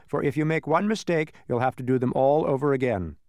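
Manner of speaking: officious, steadily rolling list; a bureaucrat reeling off endless demands; officious census taker. Acted. Census taker listing endless questions to travellers, officious.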